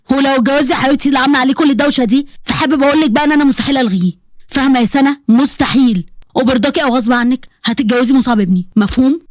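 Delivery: a hint of a forbidding older man laying down the law; stern domineering uncle. Uncle ordering his niece to marry his son, stern.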